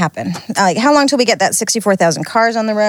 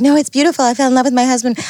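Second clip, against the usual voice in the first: higher, gushing retold protest; gushing friend; 4 semitones higher, faster than usual. American friend defending the accent online, mildly gushing. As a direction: imitate a friend gushing about love. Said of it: "she's like".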